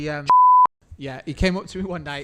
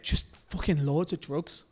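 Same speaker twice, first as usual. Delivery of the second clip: deadpan slow request; much slower than usual. Retold or imitated. Tour manager's blunt request.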